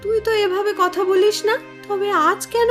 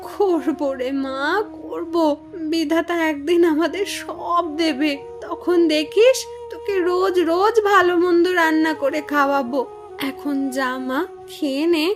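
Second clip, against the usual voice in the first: lower, softened motherly consoling; tender reassurance; 3 semitones lower than usual. Acted. Mother promises daughter better meals someday, tender. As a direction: soothe a hurt child gently.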